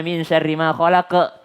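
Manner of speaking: put-on quick Sulawesi-accented recitation, KHALAQA ending unrounded. Teacher quoting how Sulawesi people recite, Sulawesi accent. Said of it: "orang Sulawesi biasanya dia bilangnya".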